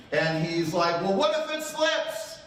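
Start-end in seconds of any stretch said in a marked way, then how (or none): 1.0-2.4 slow, much higher anxious son voice; worried teen asking what if it slips, high and slow. Retold or imitated.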